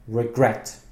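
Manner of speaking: Regret with the stress on gret; stress on last syllable. Shown as a demonstration. Teacher showing student where stress falls, stress on gret in Regret. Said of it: "The stress is on".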